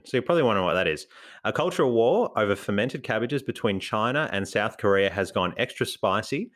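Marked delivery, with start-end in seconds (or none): 1.4-6.5 stiff robotic reading voice. Shown as a demonstration. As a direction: read it out like a robot. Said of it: "why I'm reading like a robot".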